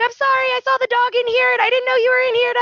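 high-pitched, fast apologetic squeal; imitated frantic apology. Friend explains why she stood in doorway, imitated frantic apology. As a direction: rattle off a panicky excuse in a high voice.

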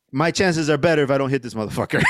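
emphatic shout. Real, not acted.

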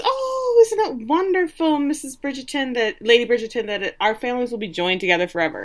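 high, sugary swooping gush; fast, breathless society-mother gush; gushing fake delight. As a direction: overdo the delight to the in-law. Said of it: "Feather Mama walks in with Marina and says".

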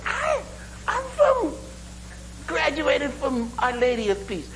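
very high, laughing brogue; a squeaky put-on Irish accent; mock Irish brogue. Irishman naming his school, high laughing mock Irish brogue. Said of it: "my Irish brogue sounds a lot like Jamaican".

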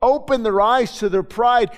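slow, deliberate petition to God; a slow, pleading intercession; earnest targeted prayer. Retold or imitated. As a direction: pray it slowly, naming each request. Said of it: "and you start to pray".

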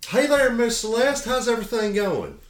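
high, loud saloon customer; customer Earl. Acted. Saloon customer greets the madam, high and loud. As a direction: hail the madam in a high, hearty voice.

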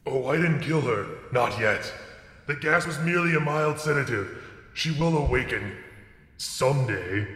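slow, menacing villain voice; creepy voice. Acted. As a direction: drawl it out like a sinister kidnapper. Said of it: "creepy voice man".

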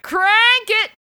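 the hero's signature catchphrase, hyped and punchy; catchphrase yell. Retold or imitated. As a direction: fire it off like a signature line.

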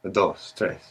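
calming down. Acted. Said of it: "I just count to, uh, tres".

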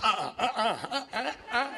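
excited uh-uh. Retold or imitated. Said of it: "He got excited. He's like".

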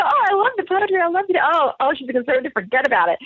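high-pitched, gushing imitation of a fan; mock gushing reader. Acting out gushing would-be readers.

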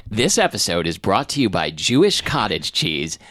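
smooth sales ad copy voice; ad read voice. Shown as a demonstration. Improvising an ad read on request, in sales ad copy voice. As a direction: sell it like a sponsor read. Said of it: "sales ad copy voice".

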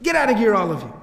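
mildly angry mock dismissal; imitated anger. Fortune teller clearing out the other clients, mock angry and upset. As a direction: retell an upset man sending everyone away. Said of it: "He gets very angry and very upset".

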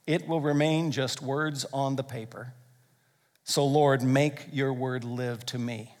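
slow, hushed prayer voice; earnest prayer. Retold or imitated. Preacher retelling Alistair Begg's prayer, slow and hushed. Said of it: "he prayed something like this".

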